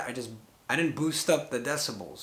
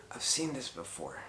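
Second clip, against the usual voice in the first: softer, hushed imitation of the voice on the tape; imitating a whisper; 6 dB quieter than usual. Replaying the ghostly voice for viewers, softer and hushed. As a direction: hush it like the recorded voice. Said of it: "you could hear it go".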